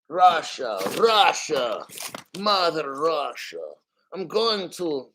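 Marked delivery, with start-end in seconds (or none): 0.1-3.6 lightly put-on Russian accent; Russian accent slipping towards German; mock Russian accent. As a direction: draw it out in a hammy Russian accent. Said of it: "separating my German accent from my Russian accent".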